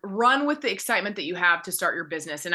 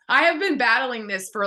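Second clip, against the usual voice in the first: laughing through emotion; 4 semitones higher, 4 dB louder than usual. Real, not acted. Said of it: "I'm not gonna get emotional".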